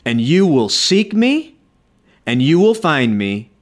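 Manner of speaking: slow, solemn reading of the Lord's words; preacher reading God's promise slowly; scripture reading. Acted. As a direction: let each promise land slowly. Reads God's words from Jeremiah.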